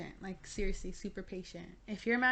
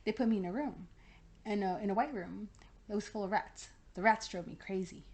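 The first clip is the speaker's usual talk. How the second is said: meme recital. Retold or imitated. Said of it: "I'm like".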